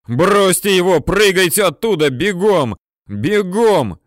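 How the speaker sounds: high, loud shouted orders; bellowing. A narrator's reading. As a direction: roar at them to run. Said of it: "орёт урядник Носов".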